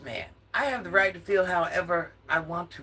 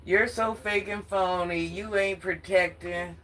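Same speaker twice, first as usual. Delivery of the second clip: slow, drawn-out mock of his accusations; slow sarcastic imitation of Marcus's complaint; mocking quote; slower than usual. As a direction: drag each word out to ridicule him.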